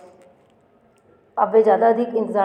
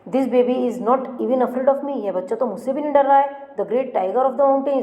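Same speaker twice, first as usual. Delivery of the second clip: higher-pitched, boastful tiger; proud, puzzled tiger; 5 semitones higher than usual. Acted. Teacher voices the great tiger for the class, higher and boastful. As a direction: let the tiger brag in wonder. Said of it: "He wondered".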